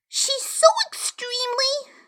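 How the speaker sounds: put-on high girlish whisper. A narrator's reading. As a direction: gossip in a hush. Alice whispers about queen.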